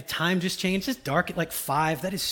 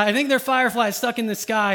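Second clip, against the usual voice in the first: second, louder stab at Timon; lightly voiced Timon, louder retry; 4 semitones higher, 5 dB louder than usual. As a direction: push the Timon voice a bit more. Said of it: "I can't do the accent".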